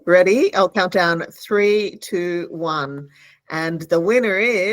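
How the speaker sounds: loud, excited countdown; hyped giveaway announcement. Real, not acted. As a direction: build suspense for the big reveal. Counting down to reveal winner.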